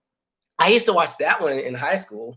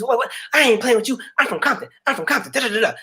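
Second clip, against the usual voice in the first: mock tough threat; 7 semitones higher than usual. Acted fight quote, reality show.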